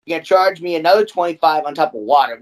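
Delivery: fast, rising rant about the fees; heated rant. Real, not acted. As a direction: rattle off the charges getting worked up. Ranting about rent increases.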